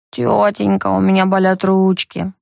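lightly voiced woman, slow and whiny; a hint of a pleading woman's voice. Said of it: "женским голосом говорит арестант".

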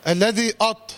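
faulty "أط" with the hamza darkened by ط; thickened opening of "أط"; heavy first vowel. Shown as a demonstration. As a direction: say "أط" wrongly heavy from the start. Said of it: "تنفعش".

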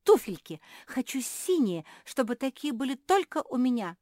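loud, high, greedy demand; yelling. A narrator's reading. Sister demanding blue shoes all to herself, yelling. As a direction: shout your wish like a demanding child. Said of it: "завопила Жози".

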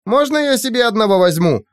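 put-on high eager girlish plea; excited plea. Aurora begs to keep a creature, high eager voice. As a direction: beg for one with glee. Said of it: "кричала она".

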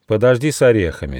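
quick, mildly cross rebuke. Acted. Gnome reins in the boastful squirrel, mildly cross. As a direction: cut him short, a touch angrily. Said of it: "сердито одёрнул его Нюфа".

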